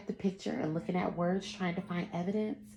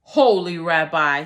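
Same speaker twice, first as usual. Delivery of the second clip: louder pleading cry; cried again; 13 dB louder than usual. Acted. Poor man cries out to the rabbi again, loud begging. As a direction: call out again, more desperate. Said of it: "he cried again".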